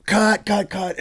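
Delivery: high mock director's call; impatient director, imitated; berating director. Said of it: "he just berated me".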